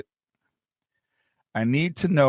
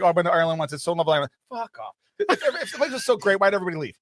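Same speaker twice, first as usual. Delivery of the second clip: put-on Irish accent; 3 semitones higher, much faster than usual. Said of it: "why are you saying that in an Irish accent".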